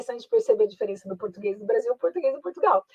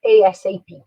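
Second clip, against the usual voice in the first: A S A P, each letter its own beat; 8 dB louder than usual. Shown as a demonstration. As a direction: spell it out, A S A P, each letter separate and louder. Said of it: "or sometimes we can even say". (soletrado letra por letra, mais alto)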